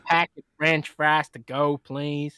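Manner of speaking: lightly put-on American accent; a mild mock-American imitation of the co-host; Rand impression. Podcaster teasing co-host with his own voice, light American accent. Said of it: "that's exactly what you sound like".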